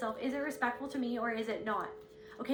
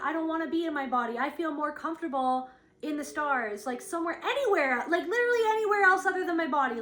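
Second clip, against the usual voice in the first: desperate pleading; 3 semitones higher, 4 dB louder than usual. Retold or imitated. Voicing her own escapist longing.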